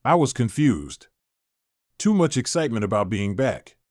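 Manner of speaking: flat, empty monotone. Acted. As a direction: recite it in a dead monotone. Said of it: "in a monotone voice".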